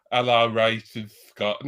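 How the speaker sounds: new impression voice. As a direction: stretch it out as a silly character. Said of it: "in my new impre".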